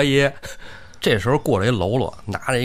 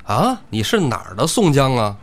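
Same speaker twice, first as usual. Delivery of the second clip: louder, surprised demand; startled question; 2 semitones higher, 4 dB louder than usual. Acted. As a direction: jerk up at the name 宋江. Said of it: "一说宋江这名字".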